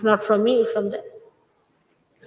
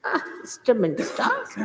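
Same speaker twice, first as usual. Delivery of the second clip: sighing, softly groaned complaint; mock exhausted; 5 dB quieter than usual. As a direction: imitate worn-out people daunted by the job. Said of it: "here we are already exhausted".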